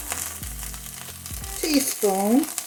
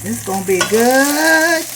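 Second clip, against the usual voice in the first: louder, slow and delighted; excited; 3 semitones higher, 4 dB louder than usual. Real, not acted. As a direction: relish every word. Savoring the cooked livers.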